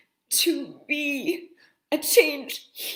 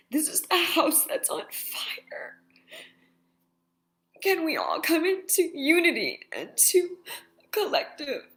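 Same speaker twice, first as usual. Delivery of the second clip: crying, whispering; 4 semitones higher than usual. Real, not acted. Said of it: "it really bothers me sometimes when I can't stop crying".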